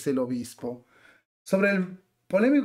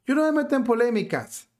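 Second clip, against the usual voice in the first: higher-pitched mock bishop brushing off questions; mock-pious refusal, pitched up; mimicking evasive bishop; 5 semitones higher than usual. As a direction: lightly imitate a bishop dodging controversy. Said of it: "rehuye a la pregunta del cartel y dice".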